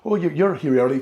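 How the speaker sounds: startled high "oh, oh"; flustered surprise. Retold or imitated. Wife caught with the book, flustered and startled. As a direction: caught off guard, voice jumping up.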